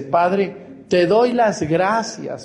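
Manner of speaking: slow, tender thanks to the Father; a slow prayer of thanks to God. Retold or imitated. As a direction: pray it out slowly and gently. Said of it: "le dice Jesús a su papá".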